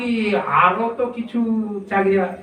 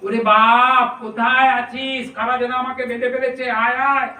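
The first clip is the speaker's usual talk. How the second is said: distressed call; 2 semitones higher than usual. Retold or imitated. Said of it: "কাতর হয়ে ডাকছে".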